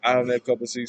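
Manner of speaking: lightly done Cockney, H dropped in "having"; practised Cockney phrase; Cockney accent. Shown as a demonstration. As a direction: attempt a Cockney accent, "tea" as tay. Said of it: "talking in this accent".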